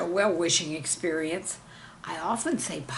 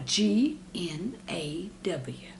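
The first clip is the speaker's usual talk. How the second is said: slow letter-by-letter whisper; whispered spelling; 3 dB quieter, much slower than usual. Shown as a demonstration. Teacher spelling gnaw for the class, whispered. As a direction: breathe out each letter slowly.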